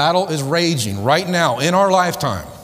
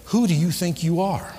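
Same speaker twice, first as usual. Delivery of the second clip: sneering inner voice; 4 semitones higher than usual. Retold or imitated. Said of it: "a voice will come to you and say".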